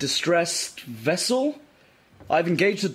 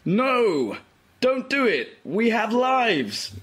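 lightly raised, squeaky little star voices; mock falsetto plea; 5 semitones higher, much slower than usual. Vela voicing the stars she squishes, in mock falsetto. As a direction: play tiny doomed stars begging, half in jest. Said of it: "pretends to speak for them in falsetto".

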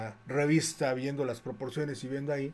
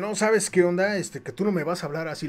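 retold angry retort; 3 semitones higher than usual. Gym owner angrily warning the painter, mock anger. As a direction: imitate a bristling gym owner snapping back. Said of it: "que se enoja".

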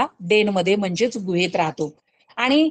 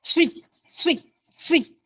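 mouse squeak; 6 semitones higher than usual. Shown as a demonstration. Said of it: "Mouse".

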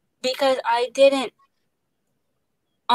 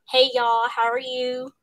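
Southern accent. Shown as a demonstration. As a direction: repeat the Southern hello, easing off at the end. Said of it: "And Southern".

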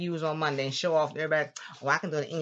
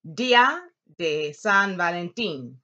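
slow, loud "Día de San Valentín", lifting each accented í; accented syllables raised; 6 dB louder, slower than usual. Shown as a demonstration. Teacher showing class where the accents fall, voice lifted there. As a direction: stretch and stress the í in "Día" and "Valentín". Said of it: "accent here, your voice goes up".

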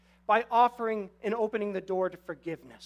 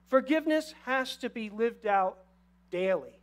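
"daily" set apart after a pause and pressed; emphasis on daily. Acted. Preacher to congregation, pressing "daily". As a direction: lean on the word "daily" at the end. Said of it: "Emphasis on daily".

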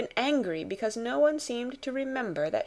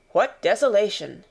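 a man's dismayed exclamation; officer's voice; 6 dB louder than usual. Acted. Officer entering the empty bungalow, dismayed. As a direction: take in the ruin aloud.

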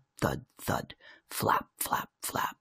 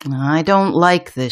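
uneasy mum; 3 semitones higher, slower than usual. Acted. Mum impatient, tapping her foot.

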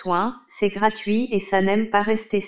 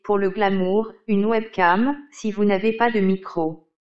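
robotic text-to-speech read; monotone computer voice reading aloud; old speech synthesizer. Acted. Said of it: "Vous avez sélectionné Microsoft Hortense Desktop".

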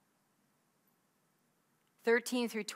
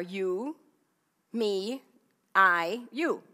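slow, counted out; 5 dB louder, much slower than usual. Shown as a demonstration. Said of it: "teacher counting out pronouns".

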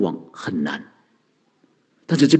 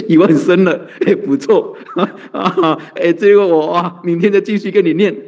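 higher voice broken up by chuckles; laughing mock report; 4 semitones higher than usual. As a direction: playfully imitate a pleased devotee, chuckling. 演念佛人向佛报告，边说边笑. (边笑边模仿得意报告)

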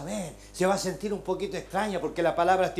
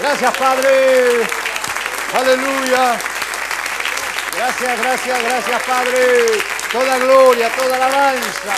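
slow, loud thanks to the Father; fervent closing prayer; loud praise prayer; 4 semitones higher, 8 dB louder, slower than usual. Real, not acted. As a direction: pour out praise.

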